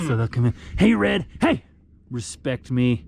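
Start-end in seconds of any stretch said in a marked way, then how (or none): 0.8-1.6 high call to a cow. Real, not acted. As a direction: call her over. Calling a cow.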